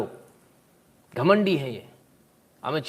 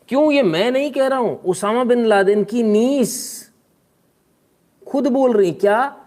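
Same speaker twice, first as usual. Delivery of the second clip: raised, louder emphatic build-up; excited emphasis; 9 semitones higher, 5 dB louder than usual. Real, not acted. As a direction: announce it like breaking news. Emphatic announcement of niece claim. (उत्साहित ज़ोरदार घोषणा)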